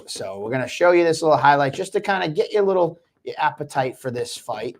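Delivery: hurried, needing to pee; needing the toilet. Real, not acted. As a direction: talk while dying to pee. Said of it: "I'm doing the pee dance 'cause I gotta pee".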